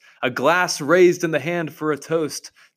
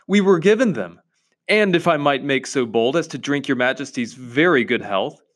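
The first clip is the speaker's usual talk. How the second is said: nervous fox. Acted. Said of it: "said the fox".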